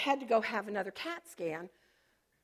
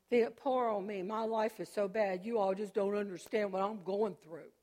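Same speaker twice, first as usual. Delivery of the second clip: mock self-pity. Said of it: "Self-pity".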